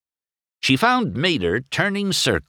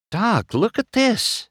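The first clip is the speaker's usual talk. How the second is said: high, slow eager call; excited Sally. A narrator's reading. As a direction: draw Doc's eye to the road. Sally calls Doc to look.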